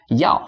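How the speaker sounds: 要 with a falling fourth tone; 要 as a Mandarin tone four. Shown as a demonstration.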